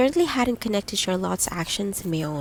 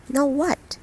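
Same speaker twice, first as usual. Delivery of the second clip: startled question; 7 semitones higher than usual. A narrator's reading. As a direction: caught off guard, rising. Startled from a daydream.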